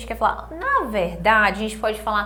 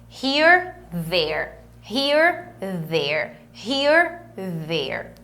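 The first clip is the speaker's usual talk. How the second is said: Here rising higher, there dropping lower; 3 semitones lower, much slower than usual. Shown as a demonstration. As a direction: contrast near and far by pitch. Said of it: "É importante a gente falar sobre isso". (here agudo, there grave)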